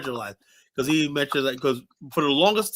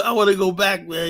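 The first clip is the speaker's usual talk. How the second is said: put-on Liberian accent; 4 semitones higher than usual. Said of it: "He goes".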